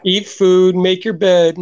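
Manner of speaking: mock mom with a cold, giving orders. Mom telling son to eat and make bed, mock raspy voice. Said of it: "I got a cold".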